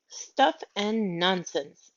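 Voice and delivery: slow, cross dismissal. Acted. Miss Lark dismissing Mary Poppins, slow and cross. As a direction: scoff at the idea, slowly and crossly. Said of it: "said Missus Lark crossly".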